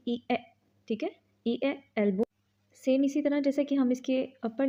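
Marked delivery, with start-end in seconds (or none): 0.1-2.2 ए stopped at once; short clipped e. Shown as a demonstration. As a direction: cut ए off short. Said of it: "फ़ौरन से stop कर देंगे".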